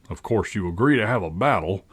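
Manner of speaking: settled, character-voiced proposal; composed, at an ordinary pitch; calmer voice. A narrator's reading. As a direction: propose it with temper subsided. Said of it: "said in a calmer voice".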